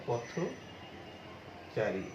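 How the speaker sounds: slow drawn-out পথচারী with the থ said as থো; pronouncing the o sound. Shown as a demonstration. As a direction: stretch পথচারী slowly, থ as থো. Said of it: "সেটি কি হয়?". (ধীরে টেনে পথচারী, থ-কে থো উচ্চারণ)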